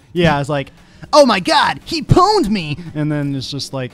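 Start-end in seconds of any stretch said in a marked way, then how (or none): 1.1-2.8 loud, high mock outburst; mock excited cry. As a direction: ham up a character getting beaten. Mocking a game character's line.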